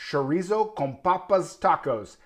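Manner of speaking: Spanish words in a clumsy accent; bad Spanish accent. Real, not acted. Cook naming the dish to viewers, bad Spanish accent. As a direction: attempt Spanish pronunciation with a non-speaker's accent. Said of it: "horrible Spanish and a horrible accent".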